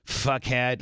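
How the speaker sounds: playful, blunt insults with pauses between; mock-rude reply. Host imitating friend's sister answering the phone, mock-rude. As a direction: answer back with affectionate abuse. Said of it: "that's how she talks to me".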